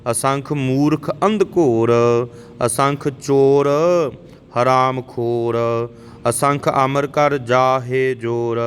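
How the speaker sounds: slow, measured Gurbani recitation; scripture recitation. Shown as a demonstration. Teacher models Japji verses for learners, measured recitation. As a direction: recite line by line, drawing out the endings.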